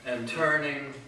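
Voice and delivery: measured poetry reading with weighty pauses; poem recitation. Acted. Poet reciting verse to an audience, measured poem recitation. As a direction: recite it solemnly, phrase by phrase, letting line ends hang.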